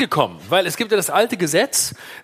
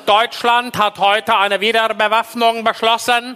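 newsreel announcer; 3 semitones higher than usual. Pretend. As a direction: announce it like old Wochenschau. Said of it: "so wie in der Wochenschau in den fünfziger Jahren".

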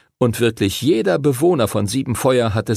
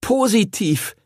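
much higher bright cheer; 11 semitones higher than usual. A narrator's reading. Arthur cheers the new bond, excited. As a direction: cheer the word out. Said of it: "jubelte Arthur".

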